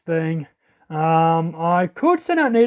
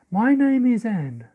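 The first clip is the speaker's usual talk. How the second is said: restrained character introduction; 2 semitones higher, slower than usual. Acted. Character introduces self, against next take.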